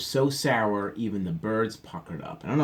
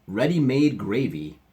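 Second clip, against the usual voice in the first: cheerful Papa; 3 semitones higher, 5 dB louder than usual. A narrator's reading. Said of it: "he said cheerfully".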